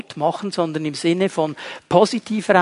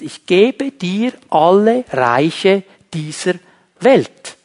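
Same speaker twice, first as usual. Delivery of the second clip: slow, lightly voiced devil offering the world; a hint of the devil, slow and coaxing; tempting devil; 3 dB louder, slower than usual. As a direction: lure him in slowly, like the tempter. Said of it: "Er sagt zu Jesus".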